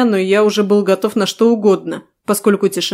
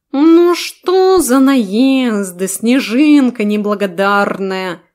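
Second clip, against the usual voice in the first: offended cat voice; 3 semitones higher, much slower than usual. Acted. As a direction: sound insulted like a haughty cat. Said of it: "оскорбился кот". (обиженный кошачий голос, высоко и медленно)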